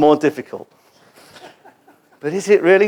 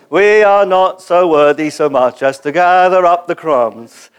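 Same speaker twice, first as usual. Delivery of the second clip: lightly voiced liturgical drone, slow; a hint of a reciting congregation; imitating Anglican liturgy; 4 dB louder than usual. Pastor mocking a congregation's flat liturgy. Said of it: "That's what you sound like".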